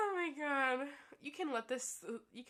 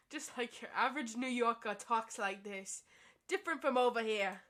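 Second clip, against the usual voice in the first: hammed-up New York accent, louder at the end; 4 dB louder than usual. The speaker mocking New Yorkers in class, hammed-up New York accent. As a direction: ham up a Noo Yawk twang for the class. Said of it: "She did do the accent".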